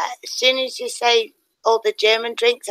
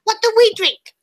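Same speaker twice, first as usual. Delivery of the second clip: higher, louder heckling call; mock heckler shout; 10 semitones higher, 5 dB louder than usual. German heckler shouting at Fluffy on stage. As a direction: jeer at the comedian from the crowd. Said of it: "And he was going".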